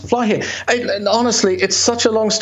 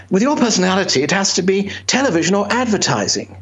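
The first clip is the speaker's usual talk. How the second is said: posh career adviser; 3 semitones higher than usual. Retold or imitated. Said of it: "They're very posh".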